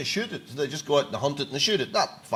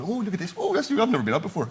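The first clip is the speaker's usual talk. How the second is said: higher, excited animal on an outing; wide-eyed stag; 6 semitones higher than usual. Acted. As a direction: marvel like a stag out for the first time. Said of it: "he's looking out going".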